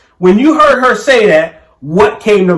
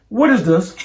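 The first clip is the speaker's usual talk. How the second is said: lightly mocking imitation of a demanding question; mocking wife. Husband imitating his wife coming straight to him, lightly mocking. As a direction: mildly mimic her confronting you. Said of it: "Are you, are you mocking me?".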